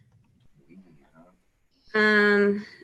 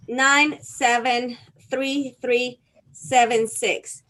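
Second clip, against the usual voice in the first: slow dictation; slower than usual. Shown as a demonstration. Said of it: "reading digits slowly for chat".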